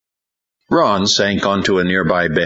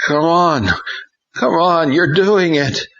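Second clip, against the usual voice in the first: put-on urging boy voice; 13 semitones higher than usual.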